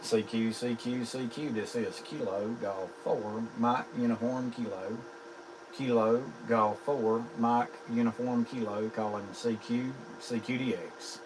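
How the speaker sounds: steady ham radio callout. Acted. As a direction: call it out like a radio operator.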